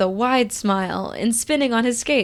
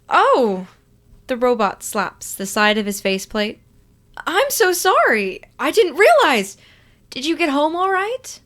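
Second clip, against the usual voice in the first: much higher, loud, rushed sorry; shocked apology; 5 semitones higher, 3 dB louder than usual. Acted. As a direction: gasp and apologize frantically.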